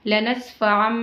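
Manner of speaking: लनस्फअम ending on a clear m sound; लनस्फअम with the final m pronounced; reading the small meem. Shown as a demonstration. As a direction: say लनस्फअम closing on meem, not noon. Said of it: "हमें मीम को पढ़ना है तो कैसे पढ़ेंगे".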